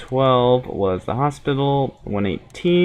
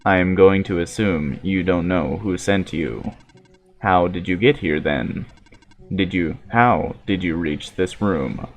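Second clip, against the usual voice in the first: low, measured android speaking evenly; steady, solemn machine prophet; calm robot voice; 6 semitones lower than usual. Acted.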